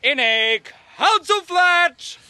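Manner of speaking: slow grand recital; hammy stage actor. Acted. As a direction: declaim it like a bad actor. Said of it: "The curtain rises".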